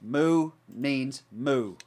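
very slow, solemn PSA; public service announcement. Acted. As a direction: announce it gravely to everybody. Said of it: "public service announcement".

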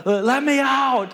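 high, slow, loud wail to be let out; imitated kid's yell. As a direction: drag it out like a stuck child. Girl trapped in cabinet.

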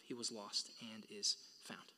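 slow, soft whisper; hushed words. Acted. Father telling his son the brother is found, whispered. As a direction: let it fall to a near whisper.

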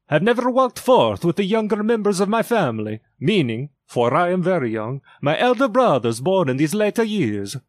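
high, fast, otherworldly spirit voice; echoing ethereal energy being. A narrator's reading. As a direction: proclaim it like a towering jolly ghost. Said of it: "pursued the phantom".

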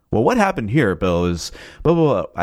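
lightly mocked news anchor delivery; half-hearted TV reporter voice; terrible newscaster impression. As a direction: give a rough imitation of a newscaster's presentation. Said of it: "I did a terrible impression".

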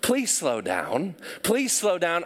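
the app pleading with David to slow down. Retold or imitated. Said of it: "over and over and over".

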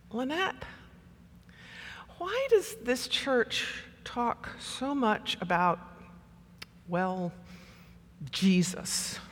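halting, softly asked, with awkward pauses; hesitant question. Retold or imitated. Intern asking a parishioner about Jesus talk, hesitant and hushed. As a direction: tiptoe up to the last word and whisper it.

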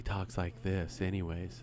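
lightly imitated tough guy, low and quiet; tough anime voice. Host imitating an anime voice actor, low tough voice. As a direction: drop low and soft for a mock tough voice. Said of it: "so he sounds tough".

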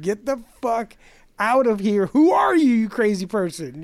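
high, loud, exasperated cry; exasperated outburst. Retold or imitated. Ranting to his friend about the clingy classmate, high exasperated cry. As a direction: yell it in disbelief.

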